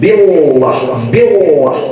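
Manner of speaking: "billah" with a lightly camp lilt; mock effeminate voice. Shown as a demonstration. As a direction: tease it, a touch effeminate. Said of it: "rada lekong dikit".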